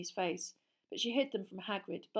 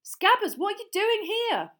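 high, loud, amazed; can't believe his eyes; astonished; 14 semitones higher, 11 dB louder than usual. Acted. Ron astonished at the rat.

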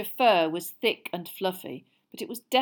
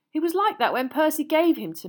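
put-on higher, louder defensive boy; 9 semitones higher, 6 dB louder than usual. Ron defending his rat to the witch, higher and louder. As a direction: stick up for your old rat. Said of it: "said Ron defensively".

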